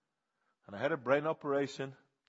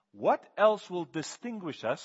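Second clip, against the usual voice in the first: slow, higher, much louder cry of Moses; urgent Moses; 7 semitones higher, 10 dB louder, slower than usual. Retold or imitated. Moses asking God what sets them apart, slow loud cry. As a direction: stretch out the question, pressing hard. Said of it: "Moses says".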